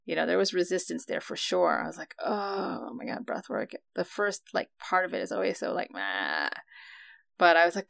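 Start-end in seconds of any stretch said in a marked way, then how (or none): 2.2-3.7 reluctant groan. Retold or imitated. Dreading the session. 5.9-6.5 bored meh. Retold or imitated. Unenthusiastic about start.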